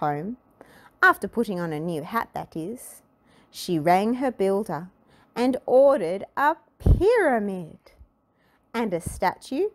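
animated picture-book narrator, drawing out the punchline; story reading to children. A narrator's reading. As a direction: read it to small children, savouring the list. Reads a children's story aloud.

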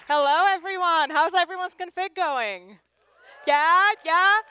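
high, loud greeting to a crowd; calling out. Real, not acted. Speaker asks everyone how the conference is going, calling out loudly.

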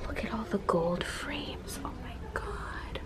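very soft, slow awed whisper; amazed whisper. Real, not acted. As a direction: breathe it out slowly in wonder. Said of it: "me whispering at all this amazing stuff".

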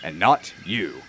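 lightly stern, low boss voice. Acted. Fat Controller scolding James, a hint of stern. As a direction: put him firmly in his place. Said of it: "he replied sternly".

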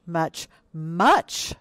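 slow, weighty "much, much"; emphatic storytelling. A narrator's reading. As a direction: stretch out each "much" with growing force. Giant elephant's size emphasized in story.

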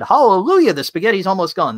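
mock hallelujah. Sarcastic mock celebration.

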